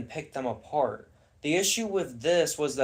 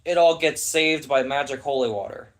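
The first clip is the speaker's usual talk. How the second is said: exasperated rant; 2 semitones higher, 4 dB louder than usual. Real, not acted. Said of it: "I'm gonna call it out".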